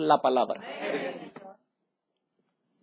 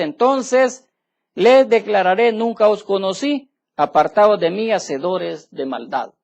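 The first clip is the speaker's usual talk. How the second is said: louder, slow, every word weighed; solemn judgment; 5 dB louder, slower than usual. Acted. Preacher declares the Lord's verdict to the congregation, slow and loud. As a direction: pronounce it like a final sentence.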